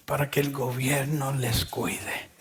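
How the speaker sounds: susurrado como confidencia; susurro. Real, not acted. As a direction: bajar la voz a un susurro cómplice. Aside about faking absence. (en voz baja, como secreto)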